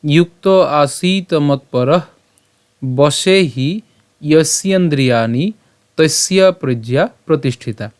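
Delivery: slow, measured shloka recitation; Sanskrit verse recitation. Shown as a demonstration. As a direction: draw out the long vowels, pausing between phrases. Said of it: "আজকের শ্লোকটি হলো".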